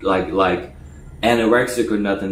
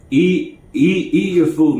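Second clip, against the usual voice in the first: higher, insistent repeat; 7 semitones higher, slower than usual. Retold or imitated. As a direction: urge him over and over. Quoted insisting.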